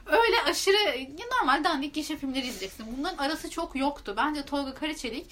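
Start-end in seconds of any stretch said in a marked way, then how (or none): 0.0-1.0 laughing. Real, not acted. Laughs mid-sentence.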